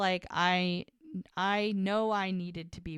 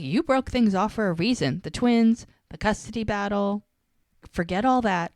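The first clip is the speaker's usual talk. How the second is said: louder, mildly angry retelling; pissed off; 3 semitones higher, 5 dB louder than usual. Retold or imitated. Woman confronting the ex who left her, annoyed. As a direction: throw the reasons back at him, acted. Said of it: "she's still pissed".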